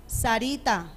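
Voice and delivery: low, soft name; soft, unforced call. Acted. Mother summoning her daughter without yelling, soft call. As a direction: call your daughter quietly, no need to shout. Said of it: "yo solamente le digo".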